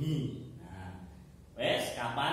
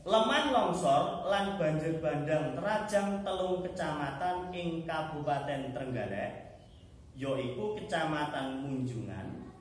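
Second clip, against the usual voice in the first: read-aloud falling lower towards the end; model reading aloud; 3 semitones lower than usual. Shown as a demonstration. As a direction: read the text with pauses at each comma. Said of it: "Saiki Pak Wardi nyontokne, eh, carane maca".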